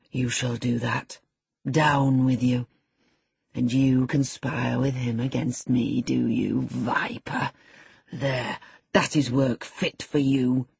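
low, slow, contemptuous bully; roaring tyrant king. Acted. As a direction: spit out slow threats. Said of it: "said the tyrant".

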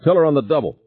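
shouting. A narrator's reading. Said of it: "Barnes shouted".

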